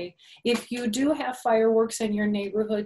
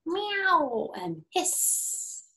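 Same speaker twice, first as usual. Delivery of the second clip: much higher cute meow; high playful mew; cat meow; 10 semitones higher, much slower than usual. Pretend. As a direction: meow like a kitty for little ones. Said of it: "and she says".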